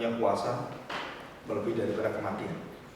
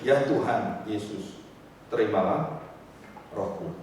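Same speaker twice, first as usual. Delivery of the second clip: tender dying prayer; 3 semitones lower, slower than usual. Acted. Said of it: "dia mengatakan apa".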